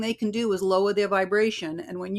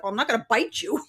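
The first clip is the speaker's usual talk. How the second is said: teasing laugh; 4 semitones higher, 3 dB louder, faster than usual. Retold or imitated. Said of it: "I'm like".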